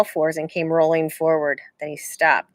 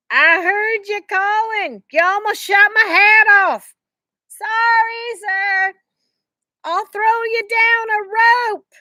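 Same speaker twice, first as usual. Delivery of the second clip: stranger, slow; slower than usual. A narrator's reading. Stranger speaking down to Jack.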